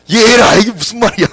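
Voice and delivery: loud, high exclamation of disbelief; mock indignant outburst. Preacher reacts to easy-yoke verse, mock indignant outburst. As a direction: blurt it out in comic protest.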